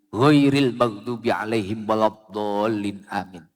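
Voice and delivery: hushed Quranic recitation to close the prayer; recited Al-Fatihah. Acted.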